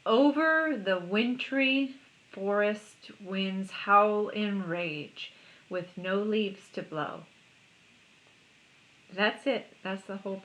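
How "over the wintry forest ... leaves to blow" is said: slow, drawn-out haiku reading; measured poetic delivery; poem recitation. Acted. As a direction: read it as verse, lingering on words. This one says.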